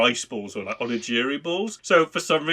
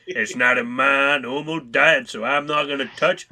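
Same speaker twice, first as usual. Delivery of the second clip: put-on cowboy accent. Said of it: "sounds more like a cowboy".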